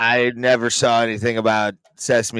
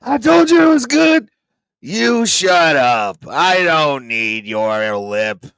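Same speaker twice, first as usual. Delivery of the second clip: character voice; 3 semitones higher, 4 dB louder, slower than usual. Acted. Dave Chappelle character bit.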